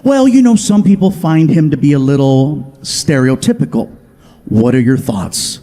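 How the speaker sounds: careful producer. Retold or imitated. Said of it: "producer voice".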